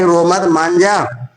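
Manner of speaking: slow soothing coax; husband soothing his hungry wife, slow and gentle. Retold or imitated. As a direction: slowly coax a crying wife. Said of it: "उनको मना रहे थे".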